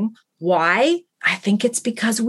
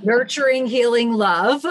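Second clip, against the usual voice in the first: grand title reveal; 3 semitones higher than usual. Shown as a demonstration. Guest unveils her book title to the host, proud reveal. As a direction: announce the title like a reveal after a drum roll, rising at the end. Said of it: "drum roll please".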